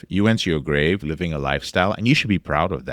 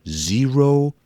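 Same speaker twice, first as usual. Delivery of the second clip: "Zero" punched high; stress on zero; 9 semitones higher than usual. Real, not acted. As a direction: hit "Zero" up high as the key word. Emphasising no impact at all.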